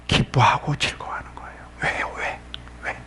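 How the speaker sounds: soft, probing whisper; hushed questioning. Real, not acted. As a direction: whisper the answer, then ask softly. Preacher answers, then asks congregation.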